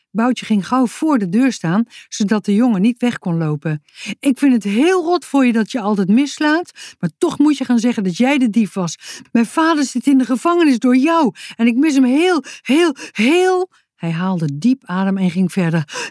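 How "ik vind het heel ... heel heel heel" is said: put-on a child's heartfelt high plea; emotional plea. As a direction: beg him with feeling. Boutje pleads about his father.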